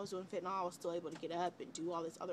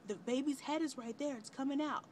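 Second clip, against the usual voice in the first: higher, urgent retelling of the nurse; 7 semitones higher than usual. Retold or imitated. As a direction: relay the nurse's alarm. Nurse voiced in birth story.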